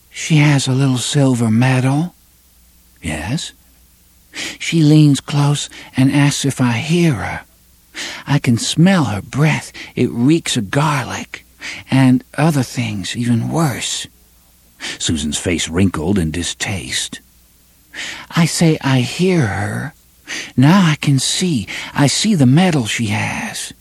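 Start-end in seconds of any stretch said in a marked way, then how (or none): 0.1-14.1 high, distant trance voice; dreamy young woman. Acted. Susan recounting in trance. 18.4-23.7 high, distant trance voice; dreamy young woman. Acted. Susan recounting in trance.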